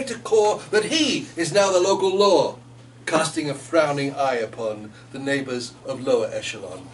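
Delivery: measured, lilting poem reading. A narrator's reading. Author reading her poem to a friend, lilting. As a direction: read the verse for the listener.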